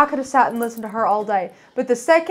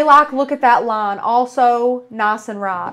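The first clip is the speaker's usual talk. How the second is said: Southern accent; slower than usual. Shown as a demonstration. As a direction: read it in her Tennessee Southern accent.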